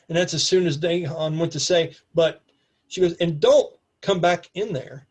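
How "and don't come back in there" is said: slow order with DON'T punched; acted warning, deliberate and emphatic; stern warning. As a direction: stretch and stress "don't", then slow down. Acted warning repeated after interruption.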